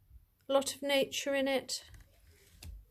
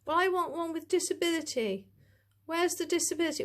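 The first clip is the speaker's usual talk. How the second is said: higher-pitched imitation of complainers; mock moaning; 5 semitones higher, faster than usual. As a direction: mildly mimic someone grumbling in a raised pitch. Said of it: "people moaning".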